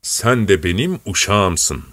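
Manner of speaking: slow, lordly and condescending; haughty. Acted. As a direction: talk down to him, slowly. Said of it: "tepeden bir bakış fırlatarak".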